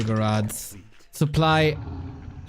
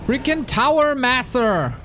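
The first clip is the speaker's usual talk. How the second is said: high, louder annoyed outburst; frustrated; 11 semitones higher, 4 dB louder than usual. Real, not acted. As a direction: vent at the enemy. Frustrated at opponent.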